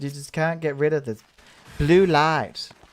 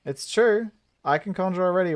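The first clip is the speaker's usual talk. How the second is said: put-on higher-pitched young student voice; insistent pupil; 4 semitones higher than usual. Sylphie's line repeated in higher voice.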